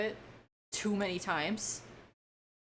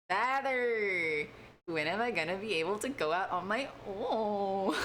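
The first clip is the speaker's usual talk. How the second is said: Pinocchio quote. Retold or imitated. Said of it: "someone doesn't know that reference".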